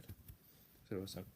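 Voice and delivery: slow whispered repeat; whispered echo. Real, not acted. Echoing his own verdict on West Ham, whispered. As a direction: whisper it back slowly.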